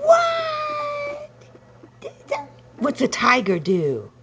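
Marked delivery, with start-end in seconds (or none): 0.0-1.3 playful surprise. Real, not acted. Playful exclaim at baby.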